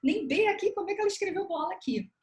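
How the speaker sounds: baffled parent. Retold or imitated. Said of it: "vai falar".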